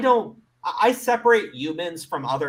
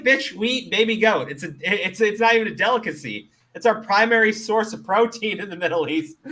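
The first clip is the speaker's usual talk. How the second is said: retort to vegans; 7 semitones higher, 5 dB louder than usual. Retold or imitated. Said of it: "I'm like".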